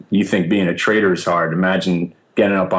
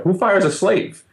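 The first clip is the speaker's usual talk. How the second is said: higher, slow incredulous punchline; mock indignation; 11 semitones higher than usual. Fired intern asking the room, slow mock disbelief. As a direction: stretch it out, playing hurt innocence.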